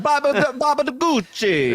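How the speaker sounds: high cartoon Italian gibberish; Peter Griffin Italian voice. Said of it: "Peter Griffin's, uh, version of it".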